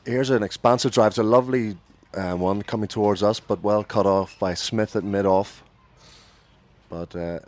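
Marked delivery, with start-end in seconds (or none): 0.1-5.6 lifted, louder cricket commentary; live play-by-play. Real, not acted. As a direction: call the shot as it happens, then ease off.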